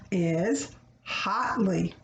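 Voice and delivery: is hotly, slow, hotly set apart; hotly said slowly for kids; teaching a new word. Shown as a demonstration. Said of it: "That means to be excited".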